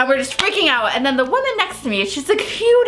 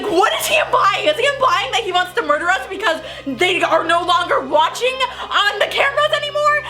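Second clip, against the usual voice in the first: panicked; 5 semitones higher than usual. Retold or imitated. Panicked inner thoughts.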